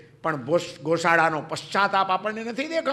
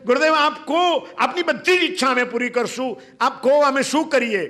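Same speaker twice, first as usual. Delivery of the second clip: pleading disciples, a touch higher; eager disciples; 3 semitones higher than usual. Acted. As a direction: urge the guru to speak his wish. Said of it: "એના શિષ્યો કહે છે".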